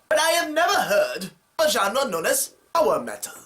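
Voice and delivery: pompous skeptic in a put-on voice; mock viewer. Imagined viewer questioning the genre, mock haughty voice. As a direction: play a snooty doubter. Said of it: "some of you are probably wondering".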